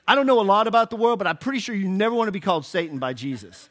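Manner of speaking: fast, laughing through the joke. Real, not acted. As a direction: chuckle it out quickly. Joking aside to congregation.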